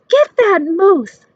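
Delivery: a hunter shouting orders; hunter's call. A narrator's reading. Hunter calls out.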